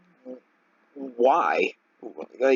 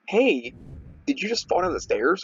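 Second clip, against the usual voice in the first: higher, chirpy mock-innocent asking; mock dumb question; 6 semitones higher than usual. Mocking people who ask at the bus stop, chirpy and higher. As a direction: play the clueless asker, pitched up.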